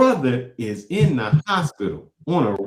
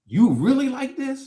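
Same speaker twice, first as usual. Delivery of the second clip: stunned disbelief; 11 semitones higher, slower than usual. Real, not acted.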